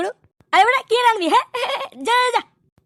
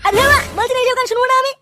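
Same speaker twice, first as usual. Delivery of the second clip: fed up, scold her for the wailing; exasperated. Acted. Exasperated boss rejects singing.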